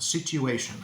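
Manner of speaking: situation with a y sound, sit-yoo-ation; old y version. Shown as a demonstration. Teacher showing the old-fashioned y version of situation. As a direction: say situation with a y before the oo. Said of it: "say situation with a y sound".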